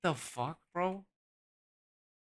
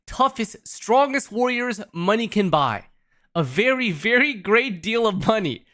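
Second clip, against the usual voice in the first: Trump impression; 2 semitones higher than usual. Streamer reads the Duke's letter to chat, mock politician voice. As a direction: sell every great like a campaign promise, lightly imitated. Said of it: "I don't know how to fucking speak like Trump".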